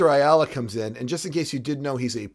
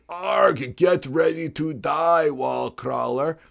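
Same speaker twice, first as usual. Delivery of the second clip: growly villain; much slower than usual. Retold or imitated. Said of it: "And he's like".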